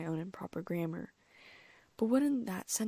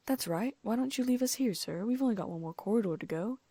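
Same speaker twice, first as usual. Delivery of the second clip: said quickly; 5 semitones higher, 4 dB louder than usual. Acted. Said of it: "Ron said quickly".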